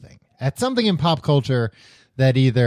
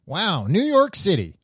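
higher-pitched mock dubbed hero; dubbed movie voice; 7 semitones higher than usual. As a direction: imitate an awestruck dubbed-film line. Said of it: "The dubbed one where he's like".

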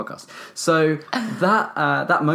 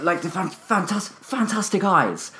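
mocking slow drawl; 5 semitones higher, slower than usual. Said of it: "They may be like".

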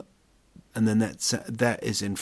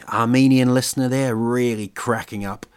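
ordinary talk, nothing marked

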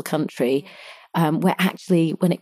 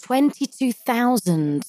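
shocked; 6 semitones higher, much slower than usual. Real, not acted. Shocked echo of the number.

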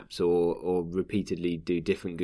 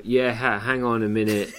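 flustered; 4 semitones higher, 5 dB louder than usual. Retold or imitated. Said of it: "they tweeted going".

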